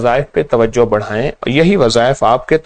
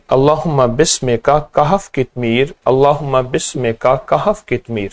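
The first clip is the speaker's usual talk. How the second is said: slow recitation. Shown as a demonstration. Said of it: "یہ آپ پڑھیں".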